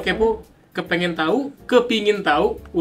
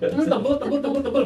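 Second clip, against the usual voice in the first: high lisping imitation; 7 semitones higher, 4 dB quieter than usual. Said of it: "ngomongnya kayak cadel gitu".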